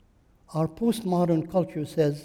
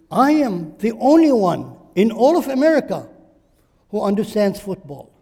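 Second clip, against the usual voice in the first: mock boast; 2 semitones higher, 8 dB louder than usual. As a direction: brag like a conceited know-it-all. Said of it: "Look at your feelings".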